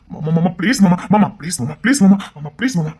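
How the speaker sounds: urgent begging; pleading. Acted. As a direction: implore uncle to stop yelling. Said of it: "என் அண்ணன் கெஞ்சிக்கிட்டு இருக்காண்டி".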